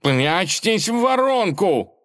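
slow, high orders from the cat; cat orders the friends into the crater, slow and high; commanding cat. Acted. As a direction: give the order firmly. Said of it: "велел кот".

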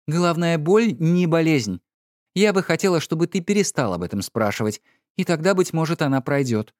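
a hint of an irritated wife; Lady Laura. A narrator's reading. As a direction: brush it off as the weary wife.

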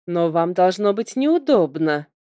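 pointed, pressing tone; with pressure. A narrator's reading. Heroine pointedly hints to the prince, pressing. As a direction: lean on the hint hard. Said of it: "с нажимом сказала я".

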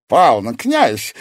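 loud, slow protesting exclamation; exclaiming. A narrator's reading. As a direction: call out to stop him, drawn out. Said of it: "воскликнул мастер зеркал".

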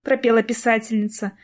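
ordinary delivery, nothing marked

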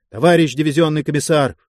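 fast, panting call; breathless rush. Acted. Breathless major calls to the commissar, panting and fast. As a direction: blurt it out short of breath. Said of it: "жарко со свистом задышал".

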